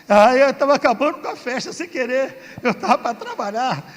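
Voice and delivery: chuckling through the words; amused laughter at himself; laughing while telling. Real, not acted. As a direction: laugh as you admit it. Laughing at own ruined party.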